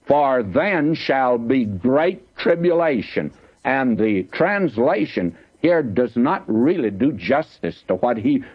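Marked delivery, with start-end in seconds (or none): 0.0-3.3 slow, weighty reading of the verse; slow solemn verse. Shown as a demonstration. Preacher reading the verse to the listeners, slow and solemn. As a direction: let each word land slowly. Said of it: "Now listen to him".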